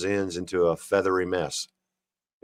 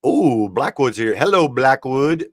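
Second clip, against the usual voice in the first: loud, drawn-out welcome; high, slow sing-out to a newcomer; delighted greeting; 4 semitones higher, 5 dB louder than usual. Real, not acted. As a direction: stretch the hello out in happy surprise. Greets a viewer joining the chat.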